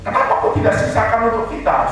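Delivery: indignant shout, half-acted; retold anger. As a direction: snap at the people taking the food. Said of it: "Saya marah, saya bilang".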